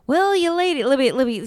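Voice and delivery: grand, high, loud holding court; imitating Mama D. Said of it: "she's, like, holding court".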